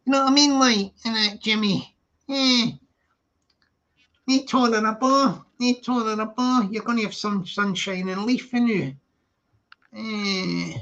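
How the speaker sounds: showing off a Scottish accent; chatty, hammed-up Scottish accent. Shown as a demonstration. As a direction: put on Scottish patter. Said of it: "I've still got a cracking Scottish accent".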